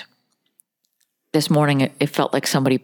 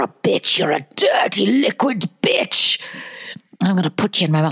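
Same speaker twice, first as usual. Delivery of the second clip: Scottish distiller's dirty talk. Retold or imitated. Distiller addressing his scotch, mock Scottish dirty talk. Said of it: "he talks to it like it's a dirty".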